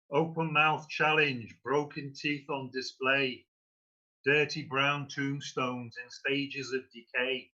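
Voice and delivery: put-on poem read in a Scouse-Manchester accent; Scouse-Manc accent. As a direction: perform the verse in a Liverpool-Manchester blend accent. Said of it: "It's a sort of cross between Scouse and Manchester".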